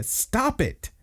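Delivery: high-pitched mock cry of protest; distressed plea. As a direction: act out a desperate plea, voice jumping up. Retold plea to stop the tirade.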